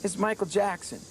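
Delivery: high-pitched impression of a star; put-on high phone voice; a famous singer. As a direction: announce yourself in a high, demure voice. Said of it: "it's rather high-pitched voice".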